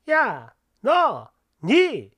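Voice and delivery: slow, drawn-out rude address; a hint of a rude mother-in-law calling out. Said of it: "이런 호칭 쓰는 거". (느릿하게 무례한 시어머니 말투)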